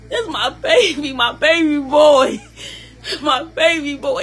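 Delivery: slow, tear-choked, half-laughing; laughing through tears. Real, not acted. Mother pleading for her baby boy, laughing through tears. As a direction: let laughter and crying mix.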